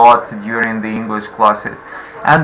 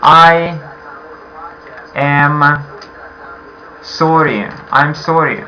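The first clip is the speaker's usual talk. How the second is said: polite apology; slower than usual. Shown as a demonstration. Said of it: "you would like to be very polite".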